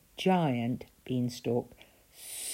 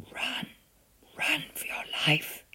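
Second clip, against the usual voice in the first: higher whispered urgency; urgent whisper; 9 semitones higher than usual. A narrator's reading. Giantess urging Jack to flee, urgent whisper. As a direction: hurry him out in a hush. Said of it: "she whispered".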